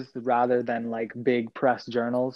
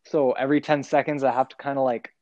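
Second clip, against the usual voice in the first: talking with retainers in; wearing a retainer. Real, not acted. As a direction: speak around a mouthful of retainer. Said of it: "it's because I have my retainers in".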